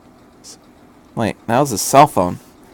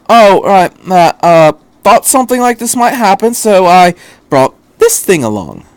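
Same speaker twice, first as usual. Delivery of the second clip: breezy doctor; 6 semitones higher, 5 dB louder than usual. Acted. Doctor casual reply.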